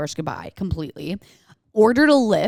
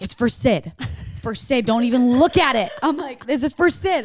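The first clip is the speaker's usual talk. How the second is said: insistent; 5 semitones higher, 4 dB louder than usual. Retold or imitated. Acting out tipsy guarding of shot.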